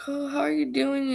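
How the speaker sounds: high mock-friendly greeting; lightly put-on niceness; fake friendly. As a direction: imitate a fake friend checking in.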